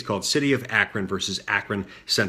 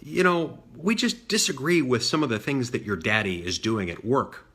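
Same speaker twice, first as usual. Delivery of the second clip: condescending; 2 semitones higher than usual. Retold or imitated. Protest leader to boy about his daddy, mildly condescending. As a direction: imitate someone explaining down to a child. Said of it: "with this incredibly condescending tone".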